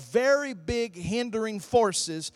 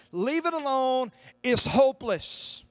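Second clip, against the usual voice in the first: hopeless naysayer; 4 semitones higher, 4 dB louder than usual. Acted. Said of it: "this person cries out and says".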